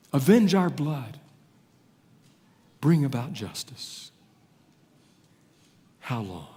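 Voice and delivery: pleading, fading to a hush at the end; martyrs' cry. Acted. Martyrs crying out beneath the altar, pleading. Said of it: "they're crying out".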